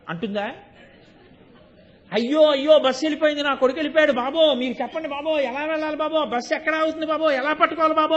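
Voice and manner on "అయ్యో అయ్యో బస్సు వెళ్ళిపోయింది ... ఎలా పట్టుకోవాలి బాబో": wailing cry for help. Retold or imitated. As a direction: cry out to strangers for her lost son. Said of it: "అని అరుస్తూనే ఉంటుందా".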